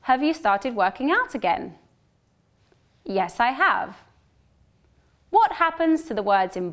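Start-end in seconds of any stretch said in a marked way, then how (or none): 0.0-1.8 unstressed have in the question; weak have in question. Shown as a demonstration. Teacher models the question with weak "Have". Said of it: "One more time". 3.0-4.0 full strong have; stressed have. Shown as a demonstration. Teacher models the short answer with strong "have". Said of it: "One more time".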